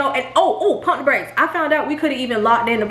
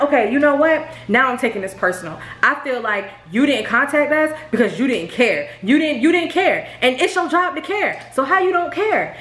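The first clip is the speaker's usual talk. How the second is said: retold furious rant; 3 semitones higher than usual. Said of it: "I was furious 'cause I was just like".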